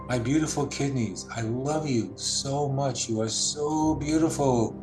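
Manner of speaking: slow, loving words to the kidneys; tenderly. Shown as a demonstration. Guide demonstrating telling the kidneys she loves them, tender. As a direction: speak to your kidneys like a loved one. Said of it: "Tell that part of you that you love it so much".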